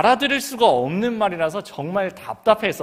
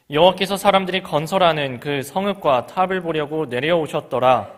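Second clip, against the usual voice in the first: scripture reading. Acted. Pastor reading Genesis aloud, solemn proclaiming. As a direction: proclaim the verse to the congregation.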